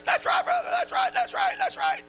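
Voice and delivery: high, far-off shouted call-back; imitated congregation shout. Churchgoers answering the preacher, a high shouted call-back.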